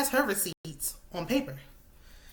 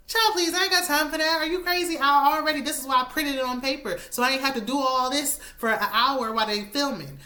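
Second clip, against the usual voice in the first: exasperated outburst; 5 semitones higher, 3 dB louder than usual. Retold or imitated. Host voices Mita, exasperated.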